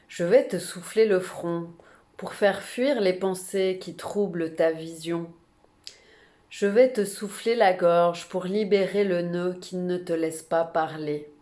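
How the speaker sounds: measured, earnest poem recitation with pauses between phrases; poem reading. Real, not acted. Reading a shaman's poem to brothers and sisters, measured poem recitation. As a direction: read it as a shaman's promise, each phrase set apart. Reads a poem aloud after announcing it.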